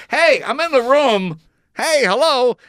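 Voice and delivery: high, loud, stretched-out protest; indignant protest. Retold or imitated. Teen Jay protests counselor talking about him, high loud indignation. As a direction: object that you are right there. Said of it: "I'm going".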